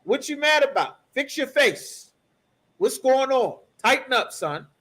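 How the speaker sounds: a hint of a father pulling his son up; the Lord scolding Cain. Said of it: "The Lord asking Cain".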